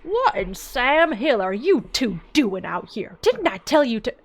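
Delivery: loud angry farmer scolding; scolding yell. Acted. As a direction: bark at the kids for being out here.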